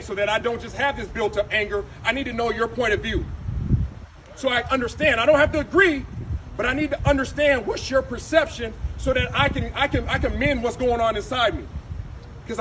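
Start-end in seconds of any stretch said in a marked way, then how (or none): 5.2-10.4 raised voice, real frustration; angry. Real, not acted. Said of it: "'cause I'm angry".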